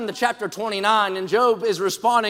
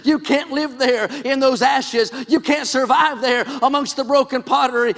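urging Job; 2 semitones higher than usual. Acted. Preacher climbing into the story urging Job to get up. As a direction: plead with him to rise, building.

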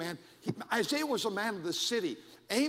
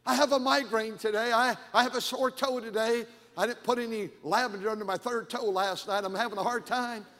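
imitating an online whiner, hammed-up; mock complainer; 3 semitones higher, 4 dB louder than usual. Online poster listing small ailments, imitated as a mock complaint. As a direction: start loud and high, ease down as the woes pile up.

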